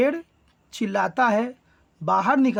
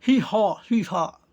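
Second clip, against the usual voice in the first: donkey bray; slower than usual. Acted. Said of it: "तो बोलता है डंकी".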